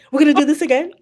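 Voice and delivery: high-pitched incredulous question; retold disbelief, voice lifted; exasperated disbelief. Traveler challenging the official at the gate, exasperated.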